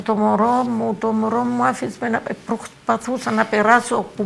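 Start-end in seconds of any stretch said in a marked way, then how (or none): 0.0-2.2 retold shout. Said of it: "άρχισα να φωνάζω".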